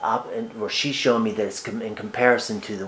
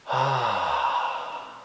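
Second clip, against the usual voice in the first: gasp for breath. Retold or imitated. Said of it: "there's a struggling for breath".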